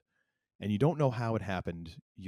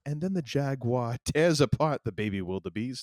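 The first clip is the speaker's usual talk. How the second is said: nature documentary narrator; 4 semitones higher, 5 dB louder than usual. Retold or imitated. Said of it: "Mutual of Omaha, sort of like".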